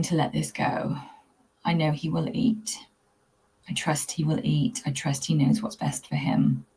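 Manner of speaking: calm affirmations. Shown as a demonstration. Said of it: "catch my breath".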